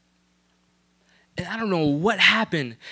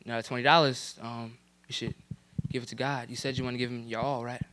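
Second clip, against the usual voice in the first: inner voice; 8 semitones lower, 9 dB quieter than usual. Retold or imitated. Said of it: "Something in me was pulling me".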